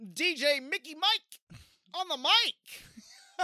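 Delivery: slow, loud, high hammed-up DJ intro with a laugh; radio DJ voice. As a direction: announce your DJ name with swagger. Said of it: "That's actually pretty good".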